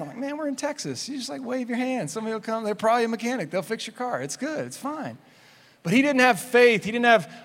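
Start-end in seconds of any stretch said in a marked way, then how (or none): 0.2-5.2 soft, higher-pitched casual soothing; mock reassurance. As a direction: brush off a friend's panic, light and quiet. Acted reply reassuring panicking friend.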